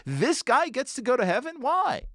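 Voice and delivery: outraged disbelief that climbs high; incredulous friends. Retold or imitated. The stunned friends protest Elazar getting into heaven, high incredulous outcry. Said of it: "They're saying".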